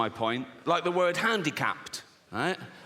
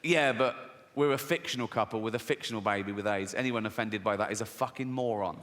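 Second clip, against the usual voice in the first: lower, flat-toned husband brushing it off; low deadpan husband; 7 semitones lower than usual. Retold or imitated. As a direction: say it like a husband shrugging off offence. Husband voiced, dismissive.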